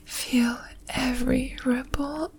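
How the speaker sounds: breathless intimate whisper, moaning between words; sensual whisper. Acted. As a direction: whisper it close, breathy and aroused. Intimate aroused whispering throughout.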